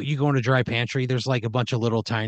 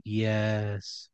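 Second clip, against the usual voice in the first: workers in unison; 5 dB quieter than usual. Acted. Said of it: "And they all say".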